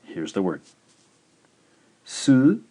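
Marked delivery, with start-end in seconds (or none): 2.1-2.6 Su, i, ka with long pauses; high, loud Su, then separate i and ka; syllable by syllable. Shown as a demonstration. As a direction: dictate Su-i-ka in three beats. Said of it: "three syllables".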